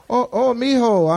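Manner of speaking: put-on slow, lightly accented Hispanic "mijo"; tender mock abuela, slowly; Spanish-speaking elder. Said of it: "He speak to you in whatever language".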